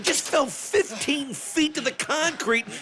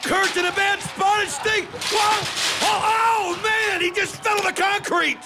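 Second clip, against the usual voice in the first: excited call; 4 semitones higher than usual. Real, not acted. Commentator shouting as Kurt falls, excited. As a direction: yell it out as the wrestler goes down. Ringside fall, commentator calling it.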